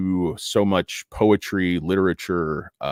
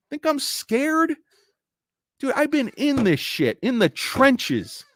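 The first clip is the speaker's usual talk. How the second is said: softer, slow tough-guy talk; mock hardened veteran; 14 semitones higher, 4 dB quieter than usual. Trader boasting of his scars, mock-grizzled and slow. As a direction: play the battle-scarred trader, lightly.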